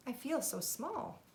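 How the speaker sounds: hushed, feeling tiny in a big world; small awed voice. Acted. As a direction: snail whispering her wonder to the whale. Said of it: "she said to the whale".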